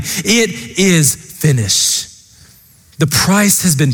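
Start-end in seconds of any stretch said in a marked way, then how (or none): 0.0-2.1 anguished cry. Retold or imitated. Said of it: "he cried out in agony".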